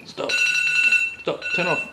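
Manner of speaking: loud, annoyed yells at a ringing alarm; yelling at alarm. Real, not acted. Vlogger snapping at her own ringing alarm, loud and annoyed. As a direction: bark at the phone to shut up. Alarm goes off mid-review.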